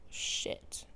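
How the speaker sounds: a breathless whispered curse under his breath. Acted. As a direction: hiss it out in a whisper, almost no voice. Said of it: "he whispered".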